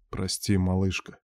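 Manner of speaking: hushed, low-key sorry; guilty apology. A narrator's reading. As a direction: apologize softly, full of guilt. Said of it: "посмотрел виновато".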